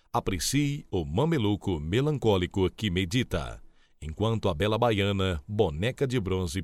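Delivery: speaking around a pen held in the teeth. Shown as a demonstration. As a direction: articulate clearly past a pen in the mouth. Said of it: "Coloque uma caneta na boca e pronuncie claramente". (com uma caneta na boca)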